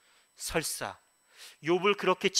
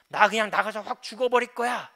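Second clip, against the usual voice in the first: loud, higher-pitched adolescent outburst; rebellious teenager; 5 semitones higher, 7 dB louder than usual. Retold or imitated. Preacher mimics a child threatening parents, rebellious teen outburst. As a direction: imitate a teen defying the parents. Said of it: "사춘기 그 반항하는 자녀들이".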